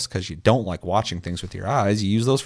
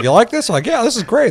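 mock company voice; 14 semitones higher, 6 dB louder than usual. Company asks players, hears praise.

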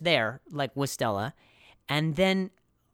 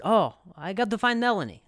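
imitating Kroom; 6 semitones higher, 3 dB louder than usual. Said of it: "That's really good accent".

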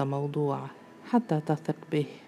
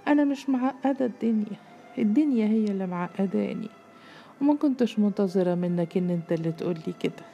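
high-pitched hurt protest, easing down; tearful reproach; 5 semitones higher, 3 dB louder than usual. A narrator's reading. Girl reproaching him as tears begin, hurt. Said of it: "وهي تعاتبه وقد بدأت الدموع تطل".

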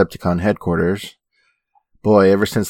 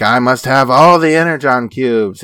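lightly voiced, higher greedy villain; power-hungry villain; 5 semitones higher, 4 dB louder than usual. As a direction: demand it like a mock megalomaniac. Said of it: "some Decepticons are power hungry".

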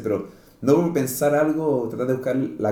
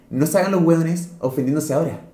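louder retold telling-off; comedian's scolding; 4 semitones higher, 5 dB louder than usual. Comedian confronting an audience that laughed earlier, scolding. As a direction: call out the offended crowd, louder. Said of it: "este comediante lo tenía todo planeado".

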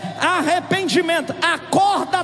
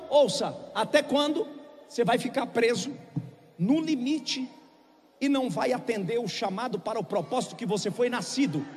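drops soft and low, pleading; quiet plea; 6 semitones lower, 8 dB quieter than usual. Acted. Pastor quietly pleading with the straying, hushed. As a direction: pull them in with a hushed appeal.

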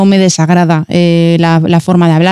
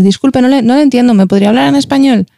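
higher-pitched, courteous operator voice; polite phone request; 5 semitones higher than usual. Retold or imitated. Former operator quotes herself to customers, polite request. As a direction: re-enact a courteous plea to a caller.

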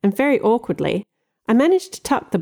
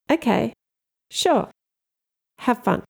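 forced smile; 6 semitones higher than usual. A narrator's reading. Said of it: "forced my lips into some semblance of a smile".

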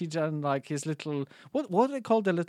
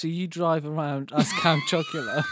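teasing shout. Real, not acted.

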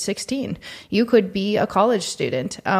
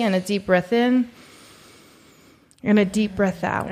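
guided breathing. Shown as a demonstration. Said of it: "Let's do it again. Ready?".

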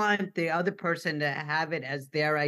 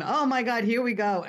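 excited family; 5 semitones higher, 3 dB louder than usual. Retold or imitated.

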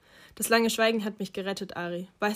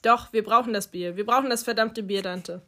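louder, insistent shout about the beer; 6 dB louder than usual. Acted. Ari shouting at Dante before breaking into sobs, louder. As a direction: yell it, grief breaking through. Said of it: "warum ich schrie".

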